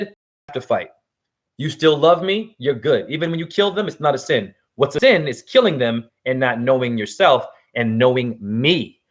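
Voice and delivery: Krishna's voice. Acted. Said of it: "But Krishna said".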